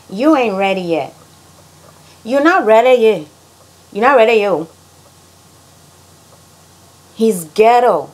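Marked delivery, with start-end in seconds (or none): 2.2-4.7 Liberian English, raised and punchy; Liberian accent. Shown as a demonstration. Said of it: "how Liberians say things".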